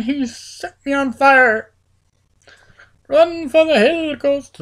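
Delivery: high, loud panicked yelling; panicked cry. Acted. Gamer on fire urging his ghost to run, panicked yelling. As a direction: sound the alarm and bolt.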